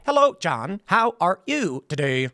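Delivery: stilted, spliced robot greeting; choppy robot voice. Retold or imitated. Mocking how robots used to talk, stilted robot voice. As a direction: say it like an old phone robot, word by word. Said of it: "they would always sound weird".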